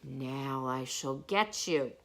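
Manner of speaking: a lightly voiced menacing lion; understated growly lion line; lion roaring. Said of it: "he roared".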